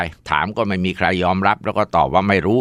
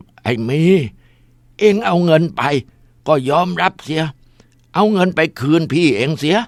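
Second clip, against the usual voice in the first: possessed voice of a stern father, higher; disguised deep voice; 9 semitones higher than usual. Acted. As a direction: scold as the dead father through the mother. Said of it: "ดัดเสียงให้ใหญ่ๆแบบพ่อ".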